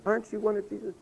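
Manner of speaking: put-on high, soft little-girl voice; a small child's high-pitched question. Little girl questioning Peter, high and small. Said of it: "And this little girl, she goes".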